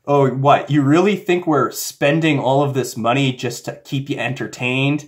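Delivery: imitated scornful disbelief; mock the gullible viewer with incredulous questions; mocking the audience. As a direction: speak as scoffing filmmakers. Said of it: "they're also making fun of you".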